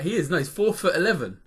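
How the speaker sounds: laughing. Real, not acted. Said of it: "Why are you laughing?".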